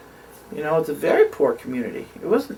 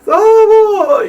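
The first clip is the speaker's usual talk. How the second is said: high, loud, gasping mock wail; hammed-up cry of terror; petrified cry; 11 dB louder than usual. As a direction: imitate someone panicking as they run up. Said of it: "just petrified".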